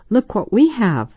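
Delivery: put-on eager girls calling out; excited exclamation. A narrator's reading. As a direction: show off a surprise, voice lifted. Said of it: "the girls exclaimed".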